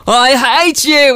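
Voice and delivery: put-on stroppy teenager, slow and drawn-out; Kevin. Host imitating her teenage brother, stroppy Kevin voice. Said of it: "my brother was Kevin".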